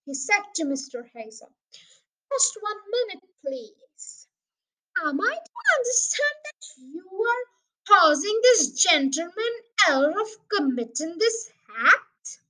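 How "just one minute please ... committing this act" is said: ponderous, formal interrogation; officious police sergeant. Acted. Sergeant questions Mister Hazel's accusation, officious and ponderous. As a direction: spell out the charge with pompous care.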